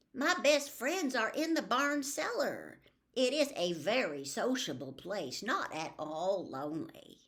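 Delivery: put-on a little girl proudly correcting her mother; Fern's girl voice. Fern defending her barn friends.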